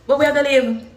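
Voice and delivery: high, loud exasperated cry; exasperated repeat. Real, not acted. Asking her viewers where Jamaicans can live, in a high, loud, exasperated cry. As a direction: throw the question up high in disbelief.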